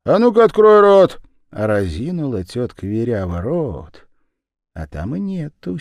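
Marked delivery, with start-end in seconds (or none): 0.1-1.2 громкий высокий окрик; потребовать властно; строгий приказ. A narrator's reading. Брат требует показать зуб. (брат громко приказывает Веряве открыть рот)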